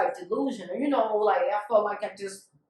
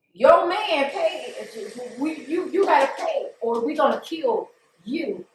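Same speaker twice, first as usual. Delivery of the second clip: raised, higher-pitched demand for payment; retold threat; 3 semitones higher, 4 dB louder than usual. Dealer warns her that her man must pay, threatening. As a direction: act out a dealer threatening someone who owes.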